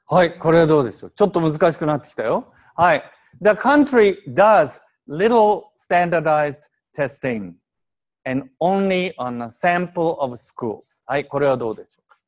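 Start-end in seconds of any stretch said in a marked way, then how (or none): 3.4-11.0 slow text reading. Shown as a demonstration. Teacher reads English text.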